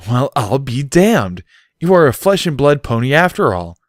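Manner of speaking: grinning disbelief; amazed grin. A narrator's reading. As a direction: marvel at him with a grin.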